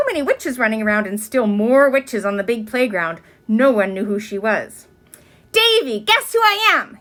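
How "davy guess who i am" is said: high, loud eager question; masked girl yelling to Davy. A narrator's reading. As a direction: call out hoping to be known. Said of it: "yelled Ramona".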